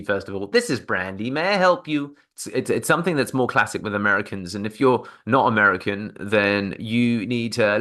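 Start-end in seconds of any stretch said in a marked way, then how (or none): 0.5-2.2 imitating receptionist energy. Shown as a demonstration. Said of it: "Listen to her energy".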